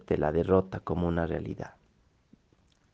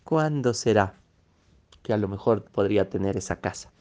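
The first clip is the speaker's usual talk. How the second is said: mock longing sighs; 2 semitones higher than usual. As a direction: act out a wistful dreamer sighing over what others have. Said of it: "Suspira y dice". (suspiros exagerados de soñador, en tono de burla)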